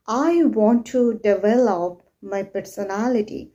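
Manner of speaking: deliberate, measured, leaning on "develop"; stressed example sentence. Shown as a demonstration. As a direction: lean on the stressed syllable of "develop". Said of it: "There is no stress".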